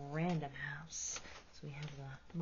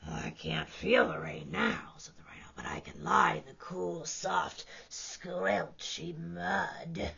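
whispered, lazy contentment; sinking into cool mud; hushed rhino; 4 dB louder, slower than usual. Acted.

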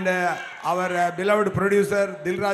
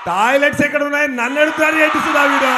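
loud, fast, punchy movie dialogue; filmy dialogue delivery; 4 semitones higher, 7 dB louder, much faster than usual. Acted. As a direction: deliver it like a film hero's line. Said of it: "पुराना movie dialogue बोलेंगे".

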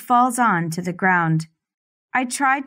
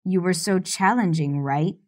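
lightly lowered, controlling man's voice; domineering man; 4 semitones lower than usual. Acted. Stefan speaks to his captive.

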